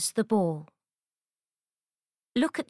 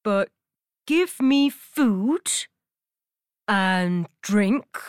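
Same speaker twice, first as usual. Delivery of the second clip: frog voice; 3 dB louder than usual. Acted. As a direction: drag out the demands like a frog. Frog bargains with princess.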